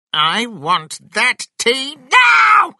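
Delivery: high, slow, full-force shout; grandma shouting. A narrator's reading. Grandma insisting on the tea, furious shout. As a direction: bellow the demand, building to a long last word. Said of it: "Grandma shouted".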